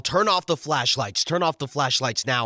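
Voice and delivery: loud commanding yell; armed man yelling an order. Retold or imitated. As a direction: bark the order at them. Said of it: "the two men yell".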